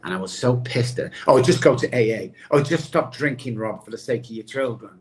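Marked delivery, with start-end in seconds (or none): 1.3-4.9 imitating dad and doctor's nagging, faster and louder at first; mock nagging advice. A recovering drinker mimics his dad and doctor nagging him. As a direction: toss off their stock advice like a tired lecture. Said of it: "My dad and the doctor used to say that to me".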